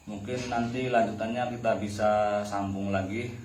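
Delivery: talking with a cigarette in mouth; smoking while speaking. Real, not acted. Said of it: "sambil merokok".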